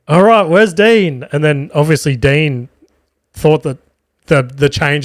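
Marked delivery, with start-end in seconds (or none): 0.1-1.3 imitated MC, higher and drawn out; retold stage call, slow and raised; mock calling out. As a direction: call across the room for the missing act. MC calls out for missing act.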